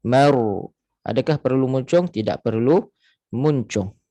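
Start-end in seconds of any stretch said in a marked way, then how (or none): 0.0-0.4 Mar with a thick full ra; heavy ra. Shown as a demonstration. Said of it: "jadi ra tebal".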